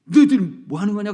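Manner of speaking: a touch of irritated scolding; mild mock scolding of noisy kids; quick, lightly irritated rebuke; annoyed. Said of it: "그렇게 말하고 싶은데".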